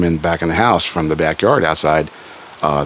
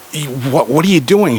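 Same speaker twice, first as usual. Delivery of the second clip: stunned fiancé yelling at the smashed guitar, pitch leaping; shocked outburst; 7 semitones higher than usual. Retold or imitated. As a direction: caught off guard and protesting, pitch leaping. Caught cheating, fiancée smashes guitar.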